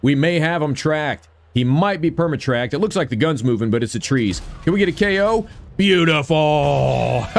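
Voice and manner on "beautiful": slow, drawn-out laughing word. Real, not acted. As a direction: laugh it out, pleased. Happy laugh after a kill.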